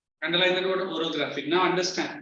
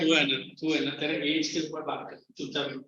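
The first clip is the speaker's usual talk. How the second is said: low, quick rebuke, trailing softer; curt telling-off; 4 semitones lower, 4 dB quieter, much faster than usual. Real, not acted. Teacher to a chatting student, curt low telling-off.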